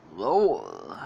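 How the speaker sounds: low mock roar; imitated lion roar. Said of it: "'cause he's a lion".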